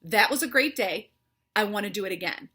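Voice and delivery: loud, emphatic affirmation. Shown as a demonstration. Leads viewers in a loud affirmation. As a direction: proclaim it for the viewers to repeat. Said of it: "Say that with me".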